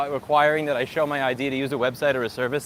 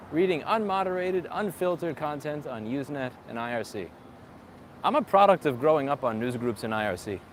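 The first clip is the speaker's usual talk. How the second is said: sarcastic; 3 semitones higher than usual. Acted. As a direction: gush with fake approval. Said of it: "if you couldn't tell by my sarcasm".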